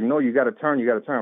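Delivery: half-hearted yelled order; retold yelling. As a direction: imitate someone insisting from the back seat. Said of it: "He's just kinda yelling at me".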